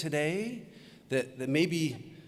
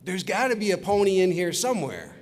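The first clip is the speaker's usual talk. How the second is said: a touch of mock excitement, slightly raised; excited little girl; 3 semitones higher than usual. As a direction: lightly play a hopeful, excited child. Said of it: "She's very excited, and she says".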